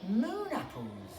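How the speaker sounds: slow, high hissing question; a touch of snake hiss. A narrator's reading. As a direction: stretch it out like a suspicious snake. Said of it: "hissed the snake".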